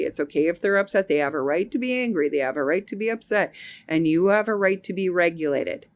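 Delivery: gentle inner reassurance; self-soothing. Retold or imitated. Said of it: "So I said".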